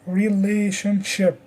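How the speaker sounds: reLAtionship, weight on la; careful teacher's Relationship, stressed on la; stress on second syllable. Shown as a demonstration. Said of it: "The stress is on the second syllable".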